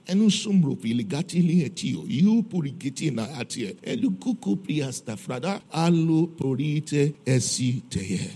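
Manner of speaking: fluent stream of tongues, slowing at the end; speaking in tongues. Shown as a demonstration. Preacher shows the congregation praying in tongues, speaking in tongues. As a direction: pray out in tongues, drawing out the last phrase. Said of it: "That's what I said in tongues".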